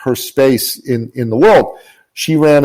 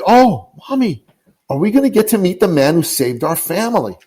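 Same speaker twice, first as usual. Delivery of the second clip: put-on higher, hopeful little boy's voice; child's voice; 6 semitones higher than usual. Son asking his mom about meeting Nikki, childlike. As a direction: lift into the son's eager question. Child's question retold by mother.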